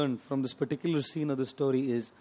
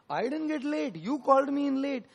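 mock outburst, pitched sharply higher; retold furious retort; 9 semitones higher than usual. Disciple answering the man who blamed him for lateness, retold furious. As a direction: play an indignant, high-pitched protest. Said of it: "got wild and furious".

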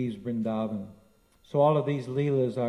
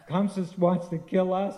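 amused, higher scoff at the threat; laughing in disbelief; 6 semitones higher, 4 dB louder than usual. Retold or imitated. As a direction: laugh the line off as absurd. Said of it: "And they just laugh and laugh".

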